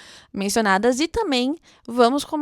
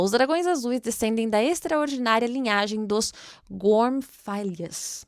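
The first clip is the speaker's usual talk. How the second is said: slow, deliberate book reading; reading aloud. Acted. Booktuber reads the dragon epigraph, slow narration. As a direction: read the epigraph like a storyteller.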